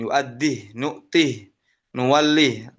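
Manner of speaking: Yu'addih, nu'tih, nuwallih each stopped dead on the "h"; sukun on the h. Shown as a demonstration. Teacher repeats the sukun reading for the class. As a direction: end each word on a silent "h". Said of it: "Dibaca sukun".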